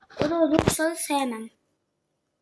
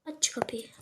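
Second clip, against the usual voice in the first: whispering; 6 dB quieter than usual. Real, not acted. Whispered command before the shout.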